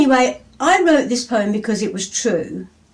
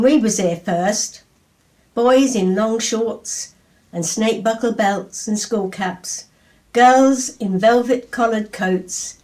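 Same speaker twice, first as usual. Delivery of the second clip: poem reading. Acted. Poem read aloud to audience.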